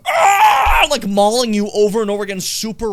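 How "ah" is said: high, loud imitated scream; imitated attack roar. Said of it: "where the guy's going".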